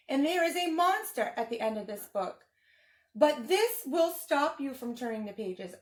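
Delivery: lightly voiced furry blue monster, fretful and pleading; Grover voice. Teacher reading the book to kids as a worried Grover. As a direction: read it as a nervous puppet monster begging the kids.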